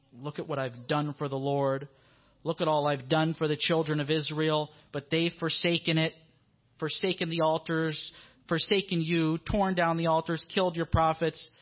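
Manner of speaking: loud, aggrieved listing; self-pitying prophet building up; rehearsed complaint. Acted. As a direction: rattle off the grievances, rising in force. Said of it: "He was rehearsing in his mind".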